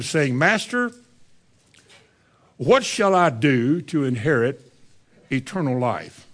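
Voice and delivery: measured King James reading, slowed on key phrases; solemn scripture reading from the pulpit. Acted. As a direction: read the Bible passage with weight. Reads scripture aloud.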